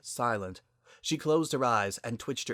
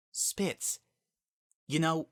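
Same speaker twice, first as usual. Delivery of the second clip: hoarse, breathy whisper, higher; 7 semitones higher, slower than usual. A narrator's reading. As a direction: rasp it out under your breath. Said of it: "began in a hoarse whisper".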